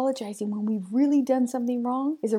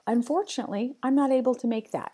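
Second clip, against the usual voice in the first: confident rephrase; 4 semitones higher, faster than usual. Shown as a demonstration. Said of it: "How about".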